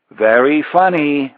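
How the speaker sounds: calling out. Acted. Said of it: "Michael called out".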